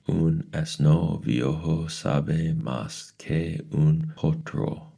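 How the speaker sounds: high, slow recitation; slow proverb. Acted. Mrs Who quoting a proverb at Mrs Whatsit, high and slow. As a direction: savor each Spanish word slowly.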